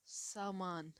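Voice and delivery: सामान with a long first aa, saa-maan; teacher modelling सामान; slow clear demo. Shown as a demonstration. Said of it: "जैसे कि".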